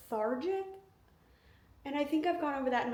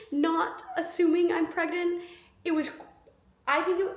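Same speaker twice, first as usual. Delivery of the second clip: laughing; 6 semitones higher than usual. Real, not acted. Laugh heard.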